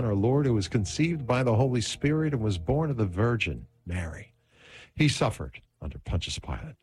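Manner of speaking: rolling, rhythmic creed recitation; recited prayer. Real, not acted. Host leading the Apostles' Creed, prayerful recitation. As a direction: lead the prayer with rising and falling phrases.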